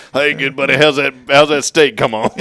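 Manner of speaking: mock CB trucker chatter; over CB radio. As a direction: order food like on a CB. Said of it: "talk like you're on the C B radio".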